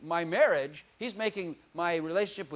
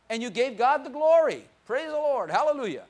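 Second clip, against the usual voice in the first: praise shout; 6 semitones higher, 6 dB louder than usual. Real, not acted. Preacher praising God.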